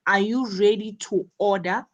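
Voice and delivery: quick yes-no question, lifting on "order"; brisk question with a rise on "order"; rising intonation on ORDER. Shown as a demonstration. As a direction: let "order" rise at the end. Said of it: "rising intonation on order".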